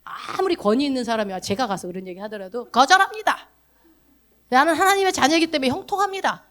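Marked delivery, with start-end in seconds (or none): 2.7-6.4 higher, proclaiming refusal; firm declaration. Shown as a demonstration. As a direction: declare it like a faith confession. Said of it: "이렇게 얘기를 하셔요". (단호하게 선포하듯)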